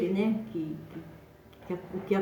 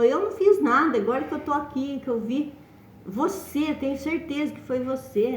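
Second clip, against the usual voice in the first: higher-pitched mock accusation, pointed at him; accusing; 6 semitones higher than usual. Maria's son accusing her in return, higher and insistent. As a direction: fling the blame back at him, pitch raised. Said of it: "E acusando ele".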